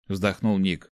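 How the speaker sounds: plain reading voice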